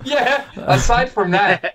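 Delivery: slow, laughing words. Real, not acted. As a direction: laugh through it slowly. Laughing at the bad review.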